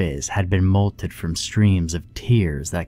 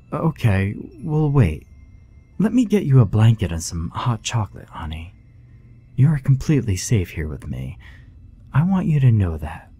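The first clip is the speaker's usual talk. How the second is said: reassuring; 4 semitones higher than usual. A narrator's reading. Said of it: "Della assured her".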